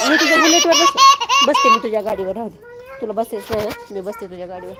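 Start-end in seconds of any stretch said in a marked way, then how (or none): 0.1-1.8 laughing. Real, not acted. Mother laughing as she teases she will sit on his bike. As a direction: giggle it out as a playful threat.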